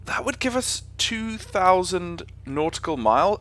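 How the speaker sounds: can't believe it, voice swooping up; incredulous. Real, not acted. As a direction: repeat the figure in high-pitched amazement. That's ridiculous.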